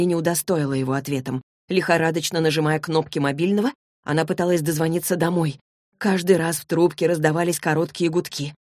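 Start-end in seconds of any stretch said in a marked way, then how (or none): none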